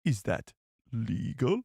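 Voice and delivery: Nute Gunray voice. Pretend. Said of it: "Let's hear your best Newt Gunray".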